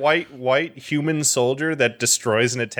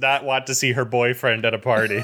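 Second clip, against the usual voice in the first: laughing. Real, not acted. Laughing while clarifying co-host's joke.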